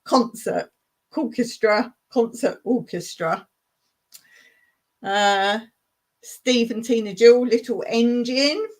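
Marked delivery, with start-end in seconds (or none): 0.0-3.5 deliberate careful pronunciation; careful repeat. Shown as a demonstration. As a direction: spell it out carefully, one word at a time. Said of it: "'cause I'm still on the word".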